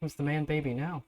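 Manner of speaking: smirking prince. Acted. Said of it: "kinda looks at you and goes".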